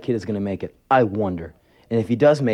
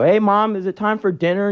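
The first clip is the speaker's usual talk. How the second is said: put-on higher-pitched child asking Mom; innocent kid; 11 semitones higher, 4 dB louder than usual. Child opening mother's bedroom door, acted innocent kid voice. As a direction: play the oblivious little kid.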